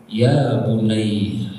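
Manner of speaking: low, drawn-out tender address; gentle, restrained call. Shown as a demonstration. Father addressing his dear child, gently and slowly. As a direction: say it slowly and low, without raising the voice. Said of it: "Maka volumenya kecil".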